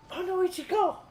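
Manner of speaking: high playful gasp, then loud; mock surprise. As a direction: pretend alarm for peekaboo. Peekaboo game with toddler.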